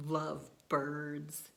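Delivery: deflated, resigned sigh; weary sigh. Acted. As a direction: sigh it out in dismay. Elephant dismayed at lovebirds.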